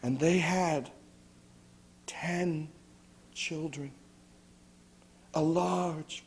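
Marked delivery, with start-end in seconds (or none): 2.1-3.9 whispered. A narrator's reading. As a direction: whisper the word ten. Hushed storyteller counting children.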